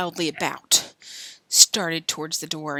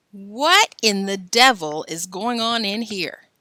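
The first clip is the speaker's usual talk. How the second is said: shouting; 2 semitones higher, 4 dB louder, slower than usual. Acted. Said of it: "Mister Forrester shouted down".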